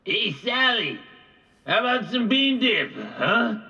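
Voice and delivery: loud, high oafish yell. A narrator's reading. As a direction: bellow it across the house. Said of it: "Gabe yelled".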